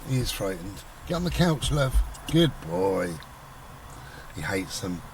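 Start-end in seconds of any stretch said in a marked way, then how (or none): 1.1-3.1 higher, gentle pet voice, coaxing; coaxing the dog. Real, not acted. Talking to frightened dog Bodie, gentle coaxing. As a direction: coax the scared dog onto the couch.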